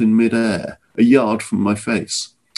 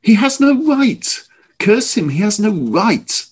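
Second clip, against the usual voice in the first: furious shout, much higher and louder; spitting rage; 12 semitones higher, 3 dB louder than usual. Acted. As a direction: spit the words out in fury. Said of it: "flint-eyed and spitting".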